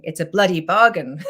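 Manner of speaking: reading it out through a laugh; can't quite keep a straight face; amused read-out of the comment. Real, not acted. Reading a funny viewer comment aloud.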